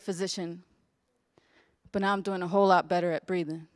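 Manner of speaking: measured, rhythmic testimony in verse; spoken-word poem. Acted. Intern reciting what she learned on the hospital bed, measured spoken word. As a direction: recite it with earnest cadence, letting each refrain land.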